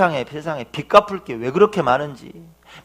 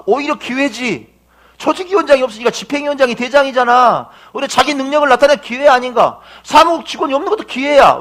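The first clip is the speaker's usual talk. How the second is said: much higher, louder, fired-up coaching; rousing encouragement; 8 semitones higher, 4 dB louder than usual. Retold or imitated. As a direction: turn his crisis into a rallying cry. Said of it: "제가 뭐라 그랬을까요?". (높고 힘차게 용기를 북돋우며)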